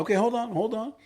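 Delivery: mock interrupting. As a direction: break in, pitched well up. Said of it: "I'm, I'm like".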